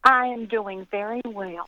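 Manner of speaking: slow Southern drawl, sounding very well indeed; unhurried, mischievous Southern lilt; Southern accent. Real, not acted. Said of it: "people with Southern accents always sound like they're doing very well".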